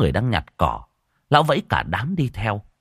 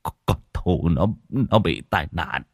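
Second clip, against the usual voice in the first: lắp bắp nghẹn giọng; báo tin dữ trong nước mắt; nghẹn ngào. Acted. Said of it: "nhìn vợ mà nghẹn ngào". (giọng nghẹn ngào lo lắng)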